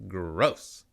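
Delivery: "Gross." dropped low and drawn out; lightly voiced Jon Lovitz disgust; Jon Lovitz impression. Vlogger repeating his Jon Lovitz take, lightly mocking. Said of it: "Jon Lovitz would just go".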